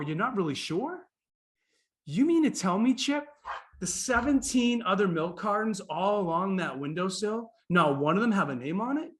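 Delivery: incredulous, pitch swooping up; mock disbelief. Visitor questioning Chip about unnamed cartons, mock incredulous. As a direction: play up astonishment, stretching out the question.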